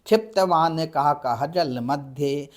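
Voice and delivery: slow, measured Sanskrit verse recital; slow chanted Sanskrit poem; poem recitation. Shown as a demonstration. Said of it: "ऐसे कविता है".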